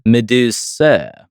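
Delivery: slow, drawn-out British Medusa; British accent. Pretend. Host testing a British accent on Medusa, slow. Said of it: "British accent that could reasonably pronounce Medusa".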